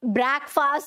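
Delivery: ब्रेकफास्ट said "brack-faast"; second wrong guess. Shown as a demonstration. Student trying to remember it, ब्रेकफास्ट mispronounced as "brack-faast". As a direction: open "a" then long "aa" in ब्रेकफास्ट. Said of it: "क्या था pronunciation?".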